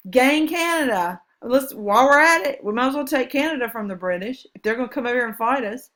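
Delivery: mock Warhawk eagerness.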